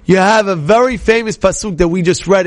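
normal talking voice

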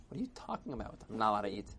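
low-key, puzzled grumble; unbothered reply. Acted. Old man puzzled by the crowd, quiet and unbothered. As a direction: question it softly, without rising to the shouting.

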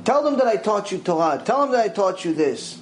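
high, urgent begging; desperate pleading. Retold or imitated. Dead woman begging the judges to let her return, high and urgent. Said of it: "She says".

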